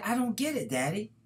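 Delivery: put-on young daughter puzzling over her father's lesson; puzzled little girl. A narrator's reading. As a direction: play the small daughter who doesn't get it. Little girl voiced in story.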